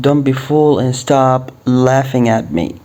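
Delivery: slow, careful model sentence; slow English model line; slow teaching read. Shown as a demonstration. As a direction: spell it out slowly for learners. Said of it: "نبدأ في أول عبارة".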